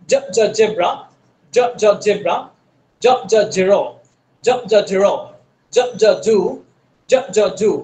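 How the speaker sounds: জ, জ, জেব্রা with a light buzzing z; thin z sound. Shown as a demonstration. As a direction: buzz a thin z from the tongue tip. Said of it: "এই জটা একেবারে জিহ্বার মাথা থেকে".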